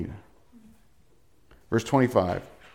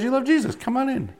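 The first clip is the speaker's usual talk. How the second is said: welcoming Father; 12 semitones higher than usual. Acted. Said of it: "The Father goes".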